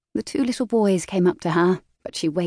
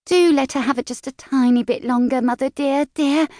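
a little sister begging in a higher voice; pleading; 7 semitones higher, 3 dB louder than usual. A narrator's reading. Little Pin pleading with Mother for Laura, higher and pleading. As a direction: coax Mother sweetly, higher. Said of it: "she pleaded".

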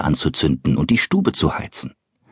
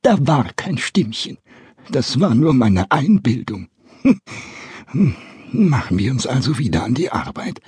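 laughing it off; 4 semitones higher than usual. Acted. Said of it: "sagte er schließlich lachend".

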